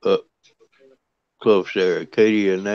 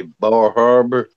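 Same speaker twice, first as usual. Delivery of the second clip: Bar Harbor in a Maine accent, R dropped: bah HAH-buh; 2 semitones higher, 5 dB louder, slower than usual. Shown as a demonstration. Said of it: "what we would say".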